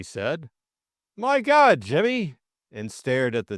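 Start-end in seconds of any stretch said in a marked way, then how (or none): 1.2-2.4 high, loud burst of alarm; shocked exclamation. A narrator's reading. Bill seeing Jimmy limp on the ground, shocked. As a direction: jump up in pitch, aghast.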